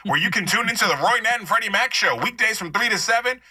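lightly voiced big-top PA announcer; store loudspeaker announcer. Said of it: "this live audition".

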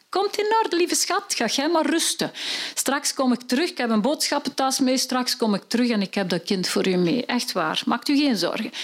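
high, soothing husband voice; calm her down sweetly; husband promising to bring a child back; reassuring husband. Acted.

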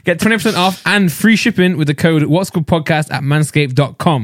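repeated promo read, laughing into it. Acted. Host repeating the discount code with a laugh, ad read.

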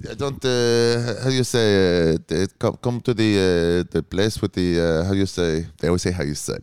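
put-on halting Israeli accent; Esti. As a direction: Israeli woman searching for English words. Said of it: "can you do Esti from the Comedy Cellar?".

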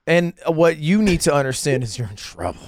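dead-serious ominous ad read; grave warning. Acted. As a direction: warn them as if lives depend on it. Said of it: "you're so serious".

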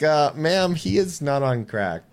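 loud, slow, pointed correction; firm correction. Retold or imitated. Clerk correcting rude customer, firm and slow. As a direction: set the customer straight, slowly. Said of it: "I'm like".

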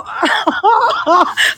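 a high burst of laughter; real laugh. Real, not acted. Laughing at the man who will argue the law.

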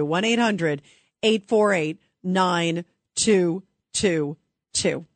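the number again, digit by digit and slow; slow careful number dictation; slow, spelled-out repeat. Shown as a demonstration. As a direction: read each digit slowly so callers can write it down.

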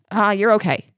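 offhand brush-off; dismissive. Shown as a demonstration. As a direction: wave the hurt away in one quick breath. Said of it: "that would be really dismissive".

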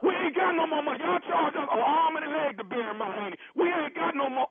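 real aggrieved objection; indignant refusal. Real, not acted. Customer angrily refuses extra charge.

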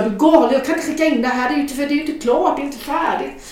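high, loud, flustered objection; panicked protest. Retold or imitated. Writer telling publisher it is unfinished, high panicky protest. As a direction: pile up excuses in acted alarm.

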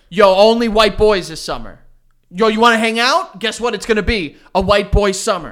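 loud hyped-up bro voice; mock bro rapper. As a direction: hype it up like a cocky rapper. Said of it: "if I released a song that was like".

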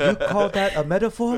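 high, loud, laughing put-on voice; hammed-up dad scoff; mock critic dad. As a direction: roast the bar as a pretend dad. Mocking dad's rap critique.

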